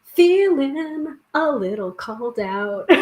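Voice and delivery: slow, breaking into real laughter; sheepish real laugh. Real, not acted. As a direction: say Feeling a little called out slowly and let it collapse into a laugh. Reacting to the card's message.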